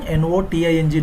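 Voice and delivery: "N O T I N G" letter by letter; each letter of "N O T I N G" named in turn; spelled out. Shown as a demonstration. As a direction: spell "N O T I N G" aloud for learners. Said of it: "this should be pronounced as noting".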